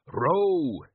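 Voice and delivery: sharp loud order; shout. Acted. Father shouting at his son to row, loud. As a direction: bark it at the boy. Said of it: "his father shouted".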